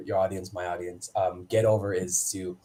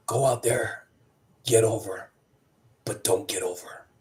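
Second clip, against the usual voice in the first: measured instruction. Retold or imitated. Agent's instruction retold, deliberate pauses.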